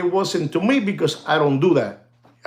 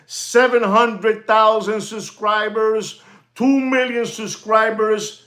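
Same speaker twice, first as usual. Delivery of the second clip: higher, slower put-on olive oil voice; Morgan Drew impression; 4 semitones higher, slower than usual. Vlogger mocking fake channels, in a higher put-on olive oil voice. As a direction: mimic a smooth YouTuber's oily tone. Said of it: "Why are you talking like that?".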